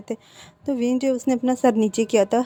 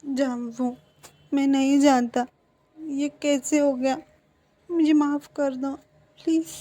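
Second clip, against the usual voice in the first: tearful pleading; 4 semitones higher than usual. Acted. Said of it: "तुम ऐसे रो क्यों रहे हो?".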